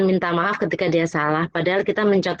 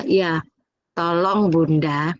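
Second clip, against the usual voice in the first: put-on child asking nicely; 4 semitones lower, much slower than usual. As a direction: mimic a child finally asking politely. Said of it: "seperti itu". (menirukan anak yang akhirnya minta tolong dengan pelan)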